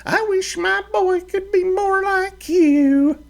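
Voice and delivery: put-on high, fiery old ranch mother; stern mother's threat, pitched high; scolding mother. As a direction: scold your grown boy like a fiery mama. Mother praises Matt.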